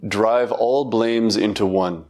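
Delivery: each word laid down slowly and weighted, "all" leaned on; slow deliberate recitation. Shown as a demonstration. Teacher presenting the slogan to students, slow and deliberate. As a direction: recite "Drive all blames into one" slowly, like a teaching verse. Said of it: "And this is how it goes".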